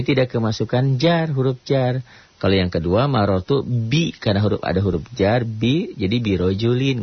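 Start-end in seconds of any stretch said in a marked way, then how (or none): 6.2-7.0 "birojulin" ending in a clear -in; correct -in ending. Shown as a demonstration. Teacher giving the correct form after bi, clear -in. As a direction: say "birojulin" with an i in the last syllable. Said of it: "nggak birojulen".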